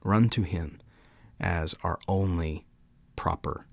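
measured devotional reading, building then settling; solemn quote reading. Acted. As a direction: read it out like a heartfelt creed, with deliberate pauses. Reads Calvin quotation aloud.

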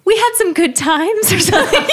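laughing quote. Retold or imitated. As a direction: say it while laughing brightly. Laughing retelling of own quote.

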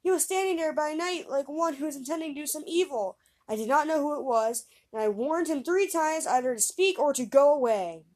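put-on boy protesting his innocence to his father; pleading.

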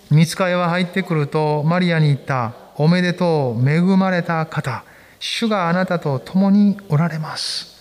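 slow, measured Bible reading to the congregation; scripture reading. Acted. Pastor reading Luke aloud to the congregation, slow and measured. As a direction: read it aloud with the church.

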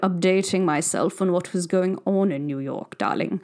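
light posh drawl, slow, darling after darling; a hint of a snooty fashion editor; lightly voiced posh fashion insider asking her friend; posh fashionista accent. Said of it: "I'm done with that accent".

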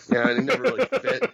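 high and fast, never punched; excited. Real, not acted. The host rushes his point about the gimmick, high and fast. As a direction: rattle it off, high and quick.

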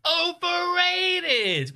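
drawn-out, high announcer call; jingle announcer. Pretend. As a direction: stretch it like a show jingle. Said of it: "do a segment for things that are overrated".

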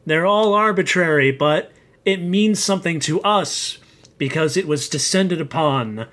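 zealous proclamation. Acted. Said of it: "It gets more and more zealous every time".

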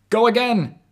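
buzzing radio voice, loud; over a radio. Acted. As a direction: shout crackling through a walkie-talkie. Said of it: "the walkie-talkie buzzed".

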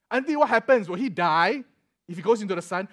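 officer asks the worried mother in mock alarm; incredulous. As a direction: act shocked at her worry. Officer answers the over-worried mother.

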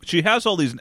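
talking around a brownie; words muffled by chewing; chewing while talking. Real, not acted. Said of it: "I'm eating a brownie".

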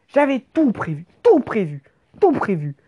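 "tout" punched harder on each repeat; emphatic boast. Acted. Rider revealing the plan was ready all along, emphatic stress on "tout". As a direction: hit "tout", then drop on "prévu".

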